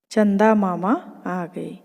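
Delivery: slow, gentle happy chant. Acted. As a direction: let the cheer fall back a little. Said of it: "खुशी से तालियां पीटकर".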